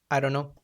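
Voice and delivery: "I don't know" run together as "I dunno"; elided form. Shown as a demonstration. Teacher giving an elision example, "I don't know" slurred into "I dunno". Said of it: "omission of sounds".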